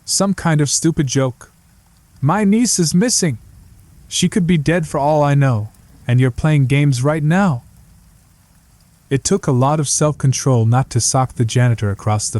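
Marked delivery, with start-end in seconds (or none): 0.0-7.6 angry. Acted. Angry detective at janitor.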